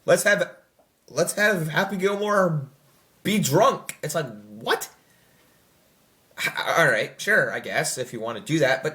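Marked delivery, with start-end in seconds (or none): 0.0-4.0 slow, higher put-on voice pitching a dumb idea; mock pitch idea. Mocking the sequel's writers, a slow put-on pitch. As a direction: lampoon the writers' room. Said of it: "mean-spirited".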